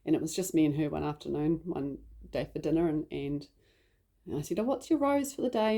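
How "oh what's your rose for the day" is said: put-on higher-pitched parent-to-child question; re-enacted keen interest in a child; bright interested question. Mum asking her young daughter at dinner, keenly interested.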